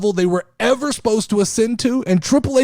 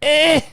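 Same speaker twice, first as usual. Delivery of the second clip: mock grunt; 6 semitones higher than usual. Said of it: "no real words".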